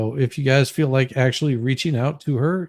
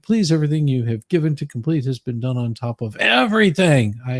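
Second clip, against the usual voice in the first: reading the letter aloud. Acted. Host reads inmate's corrected letter to viewers, lightly mocking. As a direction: read her plea, trailing into bored blah blah.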